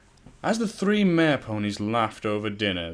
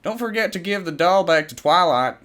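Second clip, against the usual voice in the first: calling out; 8 semitones higher, 8 dB louder than usual. A narrator's reading. Applejack calls out across house.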